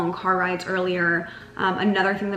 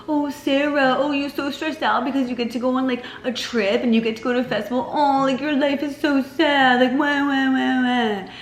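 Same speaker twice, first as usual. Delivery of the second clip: put-on high, loud whiny baby talk to herself; mocking self-pity voice; 6 semitones higher, 4 dB louder than usual. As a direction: tease yourself like a crybaby, higher and louder. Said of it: "make fun of myself in that tone".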